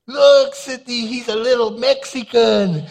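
high, loud burst of joy at the ultrasound; excited shout. Retold or imitated. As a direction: shout it out like a thrilled new dad. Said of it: "I was so excited".

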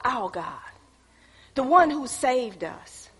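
quiet intimate sermon voice; hushed preaching. Acted. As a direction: draw them in with a hush. Preacher drops to a hush.

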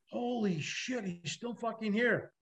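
quietly imitating the crew's stunned hush; retold whisper. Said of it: "they whisper".

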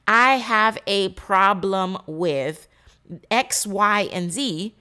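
slow, heavy confession of a problem; vulnerable admission. Pretend. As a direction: admit it slowly, like it costs you. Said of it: "it looks like I'm being weak".

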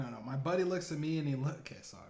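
normal talking voice

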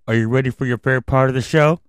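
put-on kids host asking again, brighter; overbright kids party host. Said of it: "I can't hear you".

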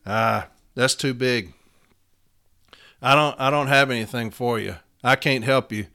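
a mild mock of a lazy steward; mock dismissive brush-off. Mocking a lazy steward who turns members away, lazy. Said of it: "some chicken shit that's gonna tell me".

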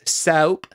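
"soap" said as "sowp"; imitated mispronunciation. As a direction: say "soap" with an ow vowel. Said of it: "Not soap".

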